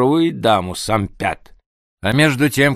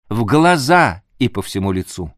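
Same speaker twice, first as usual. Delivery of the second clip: usual speaking voice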